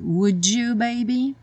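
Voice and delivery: "Would you" joined into wudju; would you linked. Shown as a demonstration. Teacher models "Would you" said as wudju. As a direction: link d and you. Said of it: "a junção do D com you".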